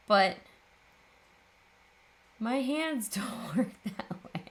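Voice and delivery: whiny, slow and laughing. Real, not acted. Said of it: "Now I just sound like a whiny little baby".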